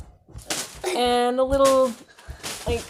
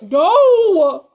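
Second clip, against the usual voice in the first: loud high no; sharp shout; 7 semitones higher, 12 dB louder than usual. Real, not acted. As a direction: shut it down. Yelling at kids.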